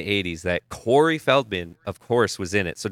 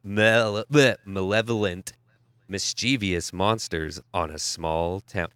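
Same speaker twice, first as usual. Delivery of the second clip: slow, low movie trailer narrator; movie announcer voice; 3 semitones lower, slower than usual. Pretend. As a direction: sell it like a film trailer. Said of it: "I want your best movie announcer voice".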